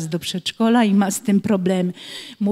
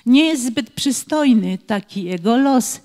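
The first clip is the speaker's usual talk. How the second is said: rhythmic verse, pausing before some rhyme words; children's poem reading. Acted. Teacher reads a clown-drawing rhyme for children to finish, rhythmic recitation. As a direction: recite it line by line, leaving gaps for the rhymes.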